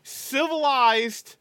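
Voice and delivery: fast then slow stretched "Civilized". Real, not acted. Defending oyster forks, fast then a slow "Civilized". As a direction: rush the line, then draw out "Civilized". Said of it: "I'll have this out in the commentary".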